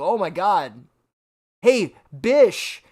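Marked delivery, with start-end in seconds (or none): 1.6-2.8 mock call with "Bish" for bitch; missing T. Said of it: "pronunciate the T".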